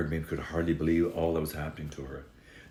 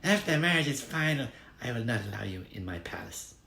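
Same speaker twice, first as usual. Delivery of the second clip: much higher, fast then softer threat; spiteful bride; 7 semitones higher, 3 dB quieter, faster than usual. Acted. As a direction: lay down the law with spite. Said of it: "she told the little mermaid".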